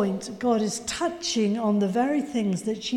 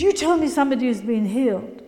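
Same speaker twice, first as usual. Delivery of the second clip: heated challenge; 4 dB louder, faster than usual. Retold or imitated. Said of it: "really heated argument".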